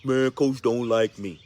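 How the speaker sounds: slow, sulky mutter to the coach; pouting player. Retold or imitated. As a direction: sulk it out slowly like a benched kid. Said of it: "you're gonna be pouting to him".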